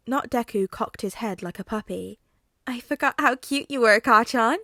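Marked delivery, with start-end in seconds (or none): 2.7-4.6 high, loud possessive croon; creepy flirty villain. Acted. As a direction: purr it with menace.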